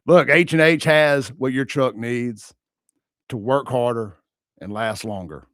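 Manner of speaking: slow booming ad read; rodeo announcer voice. Shown as a demonstration. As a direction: boom it out from the belly. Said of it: "rodeo announcer voice".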